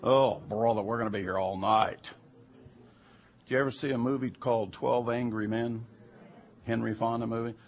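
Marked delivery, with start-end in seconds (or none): 0.0-2.1 louder, groaning exasperation; moaning complaint. Retold or imitated. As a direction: sigh out the jury's collective groan. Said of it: "like, moaning".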